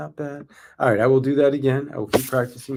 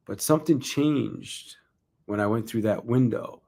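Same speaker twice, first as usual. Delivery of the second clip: measured storytelling stage voice; keynote delivery; 3 semitones higher than usual. Shown as a demonstration. Rehearsing keynote story for a conference, stage-style narration. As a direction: tell it like a speaker on stage.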